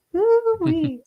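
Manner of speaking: high, laughing Cajun "Hoo-wee"; mock Cajun whoop. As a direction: echo the holler through laughter.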